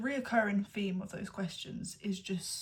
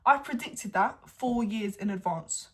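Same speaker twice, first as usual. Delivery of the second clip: excited boast; 2 semitones higher, 6 dB louder than usual. Real, not acted. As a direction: crow about it proudly. Boasting about predicting parents' split.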